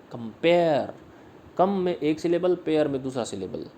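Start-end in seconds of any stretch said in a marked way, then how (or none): 0.1-0.9 कंपेयर with a weighted PARE; short com, drawn-out pare in कंपेयर; stress on P. Shown as a demonstration. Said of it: "stress है पी पे".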